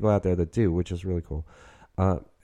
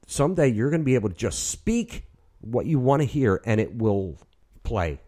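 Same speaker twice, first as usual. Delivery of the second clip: telling his younger self; 5 semitones higher than usual. Retold or imitated. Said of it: "told that kid".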